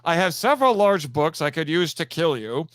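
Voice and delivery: lightly spooky, theatrical villain threat; Vincent Price bibliophile. Retold or imitated. Bookish killer hamming it up for his friend. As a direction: menace them with books like an old horror host. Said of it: "Vincent Price?".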